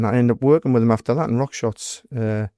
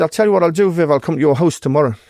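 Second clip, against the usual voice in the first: retold challenge, louder and higher; confrontational challenge; 4 semitones higher, 4 dB louder than usual. Doorman retelling how he challenged Viv to a fight, confrontational. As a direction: throw down the challenge forcefully.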